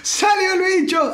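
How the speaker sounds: high slow triumphant cry; excited cry. Real, not acted. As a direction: draw it out in disbelief. Cristiano card revealed. (grito emocionado y lento)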